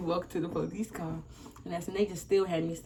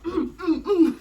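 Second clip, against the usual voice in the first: kicking grunts; 10 semitones higher, 7 dB louder, slower than usual. Retold or imitated. Acting out kicking the wall.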